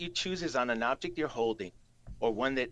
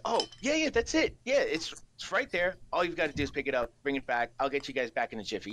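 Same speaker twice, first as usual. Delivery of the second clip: otherworldly disembodied voice; faster than usual. Acted. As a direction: speak like a spirit inside their mind. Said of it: "that sort of otherworldly, disembodied voice of someone who's speaking, uh, through your mind".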